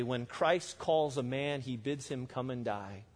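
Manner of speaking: slow, soft and grave, dropping to near hush; solemn quote. Retold or imitated. Preacher quoting Bonhoeffer to congregation, slow and hushed. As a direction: let the weight of the words sink in slowly. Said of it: "Dietrich Bonhoeffer said it this way".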